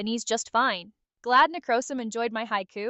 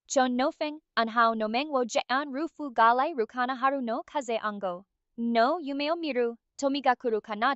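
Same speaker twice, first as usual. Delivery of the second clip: Japanese haiku. Pretend. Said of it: "could you do a haiku in Japanese".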